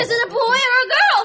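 breathless, tearful rush; excited. Acted. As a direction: blurt it out, overwhelmed. Mother asks right after birth.

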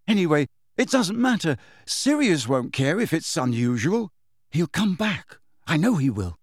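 a hint of a determined boy; stubborn boy Harry. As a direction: insist against all doubt. Harry insisting.

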